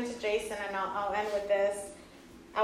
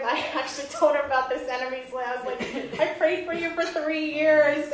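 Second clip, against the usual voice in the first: emotional laughing; 5 semitones higher, 5 dB louder than usual. Real, not acted. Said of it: "I started crying".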